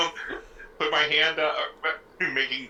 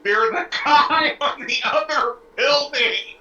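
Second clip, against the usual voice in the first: loud, high, drawn-out yell; high holler stretched out across a distance; 11 semitones higher, 6 dB louder, slower than usual. Acted. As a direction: call slowly up to someone far above. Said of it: "so I yell up".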